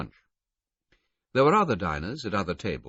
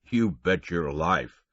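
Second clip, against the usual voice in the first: slow, louder Canadian conductor; Canadian drawl; 4 dB louder, slower than usual. A narrator's reading. Conductor answering about the phone, amused Canadian. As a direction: say it with an amused chuckle.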